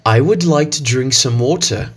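British English reading of the phrase; British accent. Shown as a demonstration. Teacher demos the sentence in a British accent. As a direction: say it the British way, non-rhotic water. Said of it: "the phrase using the British accent".

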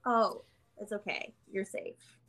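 calm yourself down gently; soothing self-talk. Retold or imitated. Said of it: "coach myself through it".

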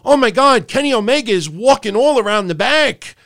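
mock excited fan. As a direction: gush like a fan spotting a star. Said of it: "you know".

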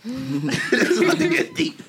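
laughing it out, slowly stretched; drawn-out teasing laugh through the words. Real, not acted. Laughing repeat of the same joke.

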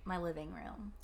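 soft unvoiced aside; whispered aside. Real, not acted. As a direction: drop to a whisper. Aside undercutting the studio claim.

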